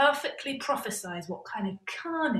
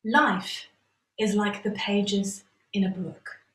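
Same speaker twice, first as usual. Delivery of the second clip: mock wise; 4 dB louder, slower than usual. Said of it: "clears throat".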